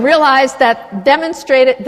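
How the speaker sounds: ordinary talk, nothing marked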